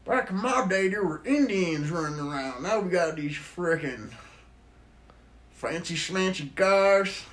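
lightly voiced cranky old man; old tree. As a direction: complain like a cranky grandpa. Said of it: "see their grandparent trees".

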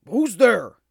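put-on loud, high startled old dog; startled gasp. A narrator's reading. Old dog startled by a sound, gasping. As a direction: blurt it out in sudden alarm. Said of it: "and he gasped".

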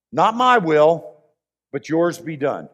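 Jesus in the garden, quietly yielding; quiet surrender. Acted. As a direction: let yours be done fall away gently. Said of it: "he pauses and he says".

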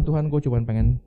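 loud, fed-up plea to God; exhausted exasperation. Retold or imitated. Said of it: "Sampai saya capek dan bilang sama Tuhan".

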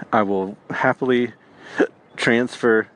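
hiccuping mid-sentence; with hiccups. Real, not acted. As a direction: talk through the hiccups. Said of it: "excuse me, I got the hiccups".

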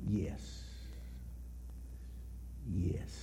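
very soft, hushed retold yes; simple yes. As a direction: drop right down to a quiet, simple answer. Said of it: "He just simply said".

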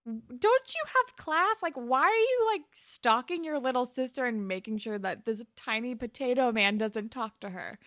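exasperated scolding. Retold or imitated. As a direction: scold a pest who won't leave. Scolding Spinner in retelling.

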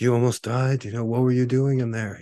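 incredulous, acted-out reproach; retold scolding. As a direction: imitate alarmed rescuers telling someone off. Retells rescuers scolding him.

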